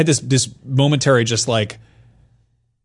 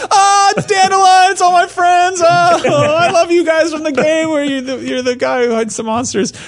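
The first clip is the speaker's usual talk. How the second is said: much higher, slow, gushing fan voice; squealing adoring gamer, much higher and slower; 4 dB louder, slower than usual. Retold or imitated. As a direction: coo over your game friends like a giddy fan. Player gushing over Witcher friends.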